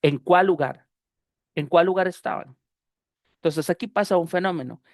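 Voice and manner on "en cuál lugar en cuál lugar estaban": CUÁL LUGAR joined as a single word with one L; linked consonants. Shown as a demonstration. Teacher repeating the example for students, consonants linked. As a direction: run "cuál" straight into "lugar", sharing the L. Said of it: "Así es como lo estoy diciendo".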